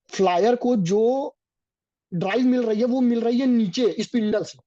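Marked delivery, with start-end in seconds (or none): 0.1-1.3 slow, drawn-out teaching emphasis. Shown as a demonstration. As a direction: stretch each word so students catch it. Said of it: "teacher drags key phrase".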